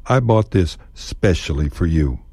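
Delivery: "specially" said with no e in front; specially without e. Shown as a demonstration. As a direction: start it straight on "specially". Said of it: "toss out the E in especially".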